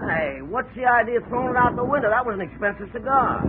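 high-pitched outraged protest; indignant protest. Acted. Krause protesting to Johnny over his tossed cigar, high indignant outburst. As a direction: squawk up high, offended.

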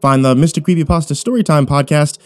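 bright, upbeat host sign-off; cheerful channel plug; podcast host outro. Real, not acted.

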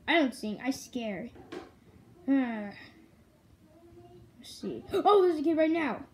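a kid voicing a toy monster bragging about scaring; Nightmare Freddy voice.

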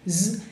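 "z" as a little fly's buzz. Shown as a demonstration. Teacher reminding learners of a mosquita, buzzing Z. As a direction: buzz a single held "z". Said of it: "acuérdense de una mosquita".

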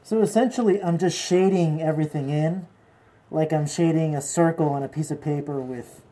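talking through a face mask; muffled. Real, not acted. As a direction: speak muffled behind a mask. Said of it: "I'll have my mask on, so sorry if it sounds a little muffled".

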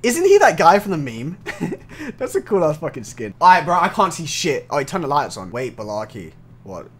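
normal talking voice

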